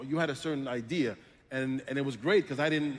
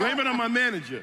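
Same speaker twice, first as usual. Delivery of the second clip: high, loud laughing protest; joking protest; 10 semitones higher, 5 dB louder than usual. Real, not acted. Actor shifting blame to his manager, loud and joking. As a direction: call it out over the laughter.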